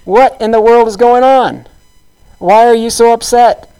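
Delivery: the queen demanding what's wrong with her husband; Jezebel's alarm. Retold or imitated. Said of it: "Jezebel comes in and she's like".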